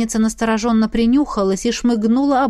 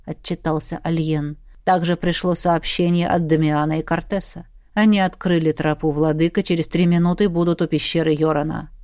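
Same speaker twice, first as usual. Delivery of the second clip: lower, steady soldier's report; low male report; 4 semitones lower than usual. Acted. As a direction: report like a calm officer. Доклад Альена. (сдержанный мужской доклад)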